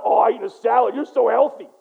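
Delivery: loud teasing jab at a friend; mocking. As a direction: make fun of the healthy eater, loudly. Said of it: "I'm gonna make fun of".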